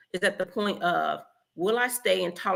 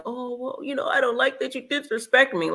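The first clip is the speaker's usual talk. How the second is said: higher, timid mock-polite complaint; weak pushover; 5 semitones higher than usual. Man meekly tells his partner off, mock timid. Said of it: "he's like a punk".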